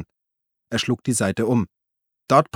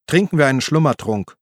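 Uli's voice, higher and a little louder; Uli, pleading; 4 semitones higher, 4 dB louder than usual. Acted. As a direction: call after him, placating. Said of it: "bot Uli an". (Uli ruft beschwichtigend hinterher, höhere Stimme)

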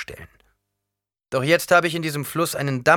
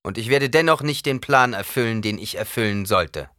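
laut und hoch vor der Menge ausgerufen; lauter; 9 semitones higher, 9 dB louder than usual. A narrator's reading. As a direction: wie eine Ansprache an die Kameraden. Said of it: "Lauter sagte Paul". (Paul ruft laut zu den Kameraden)

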